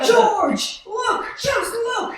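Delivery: loud, high, slow urging; excited call. Acted. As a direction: make him see the miracle. Wife reveals the gathered money.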